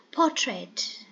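Portrait with the weight on the first syllable; first-syllable stress. Shown as a demonstration. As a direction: model the word Portrait, stressing its opening syllable. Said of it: "the first syllable is stressed".

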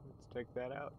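talking through a yawn; words stretched by a yawn. Real, not acted. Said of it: "Sorry for that yawn".

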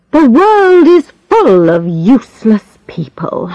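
bitter whisper. Acted. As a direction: breathe it bitterly.

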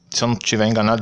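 words through a burp; speaking through a small burp; fizzy drink burp. Real, not acted. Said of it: "desculpa pelo arroto aí".

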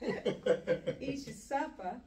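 slow, laughing repeat of the scolding; laughing echo. Retold or imitated. Woman laughs back his parent scolding. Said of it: "You eat all your supper".

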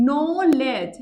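"নোলেজ" split as নো, লেজ; two beats. Shown as a demonstration. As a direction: give each half of "নোলেজ" its own beat. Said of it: "দুইবার উচ্চারণ করেছি". ("নোলেজ" দুই ঝোঁকে)

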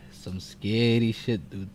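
breathy hushed whisper; scared whisper at the screen. Real, not acted. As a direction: whisper it like you're scared to be heard. Horror game, hushed reaction.

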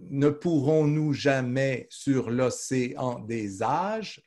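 slow, measured line of poetry; slow verse recital. Shown as a demonstration. Teacher reciting Lamartine for a student, slow and measured. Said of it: "Vous voyez comment?".

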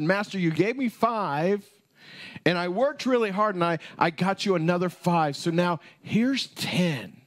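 lightly voiced eager servant; servant reporting. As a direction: proudly hand over the earnings.

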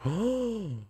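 high, breathy-free sudden gasp of surprise; surprised oh. Real, not acted. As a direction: caught off guard. Surprised by villager's strange clothes.

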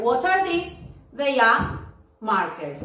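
asking and answering. Shown as a demonstration. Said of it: "El otro le muestra y hace".

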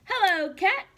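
cheerful duck greeting. Acted. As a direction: wave hello as a happy duck.

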